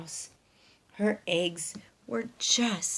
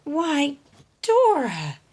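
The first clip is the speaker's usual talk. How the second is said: duck voice; 5 semitones higher, 9 dB louder, slower than usual. Acted. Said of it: "quacked Debbie".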